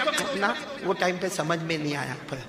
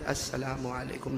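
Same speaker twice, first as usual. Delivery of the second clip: soft slow greeting, much quieter; softly; 3 semitones lower, 9 dB quieter, slower than usual. Retold or imitated. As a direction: say it gently so as not to startle. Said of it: "دھیرے سے کیا". (دھیرے سے سلام)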